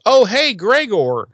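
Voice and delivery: high, slow, teasing villain hello; sly villain greeting. Retold or imitated. Goddess greets her victim Gregor, slow teasing villain voice. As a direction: purr his name like an old enemy. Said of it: "Glory does is she goes".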